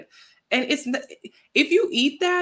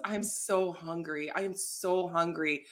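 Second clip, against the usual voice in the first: whiny hungry; 2 semitones lower, 9 dB quieter, slower than usual. Retold or imitated. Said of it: "she texts me and she goes".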